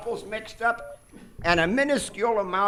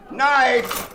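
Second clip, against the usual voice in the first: loud, higher call for the knife; 5 semitones higher, 7 dB louder than usual. Acted. Surgeon calling out for a knife, loud. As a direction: bark the order to the nurse.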